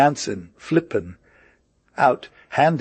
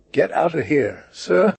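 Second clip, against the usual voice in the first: angry dismissal; 7 semitones higher than usual. A narrator's reading. Master throws Blewett out.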